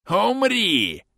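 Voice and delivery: high savage war cry; battle cry. Acted. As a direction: scream it as you charge. Bandit leaps attacking with saber.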